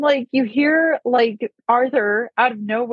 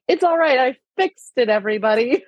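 proud Arthur; 3 semitones higher than usual. Retold or imitated. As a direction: announce the fix brightly. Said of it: "he's like".

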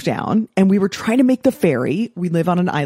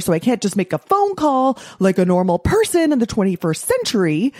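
mock angry rant; 4 semitones higher than usual. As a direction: rant at the car, the mechanic, everything. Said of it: "My husband would go into villain. He'd blame".

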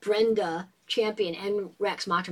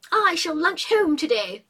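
higher, slow, lofty refusal; Julia declining; 7 semitones higher, 4 dB louder, slower than usual. A narrator's reading. Julia refuses the Ritz lunch, higher and slow. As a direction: draw it out with aristocratic disdain. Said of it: "she said".

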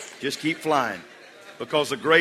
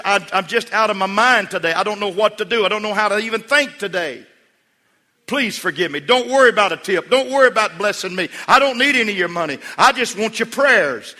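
imitated distraught waitress, high and very loud; impassioned retold outburst at peak pitch; retold tearful plea; 8 semitones higher, 9 dB louder than usual. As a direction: beg at full voice as the desperate waitress. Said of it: "she began to weep and cry".

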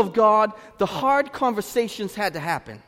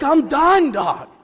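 louder, higher, resolute; firm declaration; 7 semitones higher, 9 dB louder, much slower than usual. Retold or imitated. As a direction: say you're out, firmly. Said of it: "I was like".

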